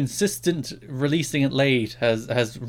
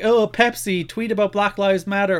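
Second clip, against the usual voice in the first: mock gushing fan; 6 semitones higher, 4 dB louder than usual. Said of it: "we're all like".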